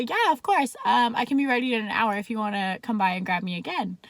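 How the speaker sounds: breezy, offhand acceptance; casual. Retold or imitated. Woman accepting the cop's dinner invitation, acting casual. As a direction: play it cool, hiding the excitement. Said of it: "So casually, I say".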